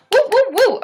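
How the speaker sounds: high, whooping cheer; excited cheer. Real, not acted. Streamer thanking viewers, high excited whooping.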